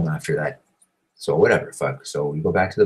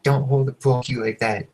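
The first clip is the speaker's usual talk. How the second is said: higher-pitched imitation of screaming; mock scream; 6 semitones higher than usual. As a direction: scold in a raised, mock-screaming voice. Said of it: "screams at me".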